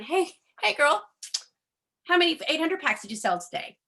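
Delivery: mock pushy caller. She imagines phoning her sponsor, mock pushy caller. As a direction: parody an overeager upline calling her sponsor. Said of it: "calling Mario going".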